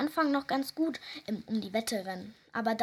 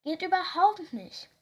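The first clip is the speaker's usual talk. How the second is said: quacking; 7 semitones higher, 4 dB louder than usual. Acted. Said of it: "schnatterte sie".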